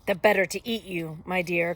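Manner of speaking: loud, menacing wolf, disguise dropped; crying out. A narrator's reading. Wolf about to eat the girl, crying out. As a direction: pounce on it at full volume. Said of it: "cried the wolf".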